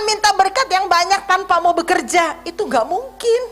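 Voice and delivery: fiery sermon delivery; forceful preaching. Acted. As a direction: preach it hard to the congregation.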